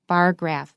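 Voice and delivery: slow, lean on bar and drop graph; stress on bar. Shown as a demonstration. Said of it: "the stress is on the first syllable".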